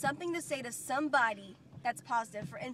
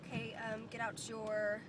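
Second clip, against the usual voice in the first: quiet teacher voice; 2 semitones lower, 6 dB quieter than usual. Shown as a demonstration. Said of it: "I do this one".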